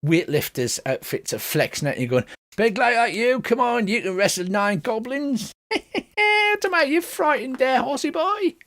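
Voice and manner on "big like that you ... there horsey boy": high-pitched goblin heckler; cackling goblin jeer, climbing very high; taunting goblin. Acted. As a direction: goad them in a high goblin voice.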